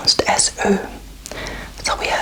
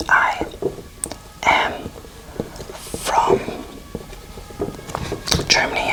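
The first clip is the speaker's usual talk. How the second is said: word by word. Shown as a demonstration. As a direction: separate each word of I am from Germany. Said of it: "So in English you would say".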